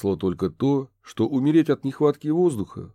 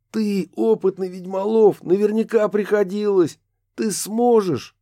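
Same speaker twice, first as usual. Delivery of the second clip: high, louder urging; urgent pleading; 11 semitones higher, 4 dB louder than usual. A narrator's reading. Kurt urging the ghost, high loud pleading. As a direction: convince him he can do it.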